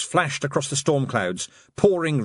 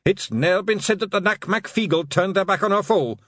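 yelled; 9 semitones higher than usual. Acted. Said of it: "Rob yelled".

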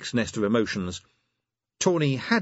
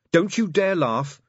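"you" held long and loud; slow warning, "you" punched; stress on YOU; 9 semitones higher, 6 dB louder, slower than usual. A narrator's reading. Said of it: "said Angua".

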